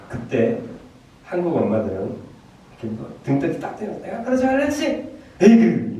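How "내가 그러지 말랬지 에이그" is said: high-pitched exasperated telling-off; scolding Korean mother. Acted. Korean mom reproaching her child after a smack, high scolding. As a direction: scold sharply, ending in a loud huff. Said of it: "막 책망하고 끝이래요".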